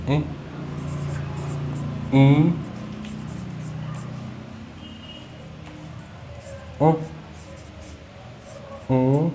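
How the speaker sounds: ई ऊ ओ औ held long and nasalized; nasal vowels. Shown as a demonstration. Teacher demonstrating nasalized vowels to the class, nasal. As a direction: hum each vowel through the nose. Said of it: "कैसे?".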